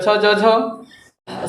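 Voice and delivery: each letter spaced out with long gaps; slow listing. Shown as a demonstration. Teacher listing consonants for students to write down, very slow. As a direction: count the letters off one by one, slowly. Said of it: "स्पर्श संघर्षी हो गया च".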